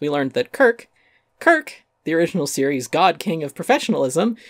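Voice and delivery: rising indignation; building outrage. Real, not acted.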